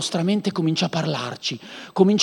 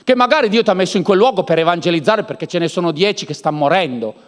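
normal talking voice

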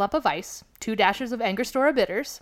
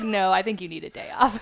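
laughing. Retold or imitated. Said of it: "she's like".

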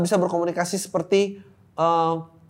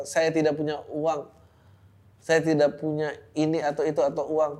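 mock quote. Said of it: "dengan berkata".

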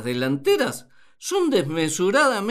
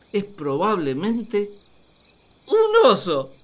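exclaimed guess; 6 dB louder than usual. Acted. Adam announcing a new guess.

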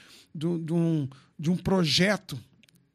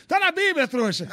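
mock triumphant jab; 8 semitones higher, 3 dB louder than usual. Teasing retort to believers.

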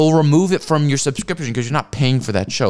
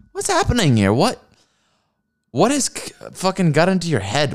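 high, incredulous outcry; baffled, voice jumping up; exasperated disbelief; 5 semitones higher than usual. Real, not acted. Exasperated outburst at streamer.

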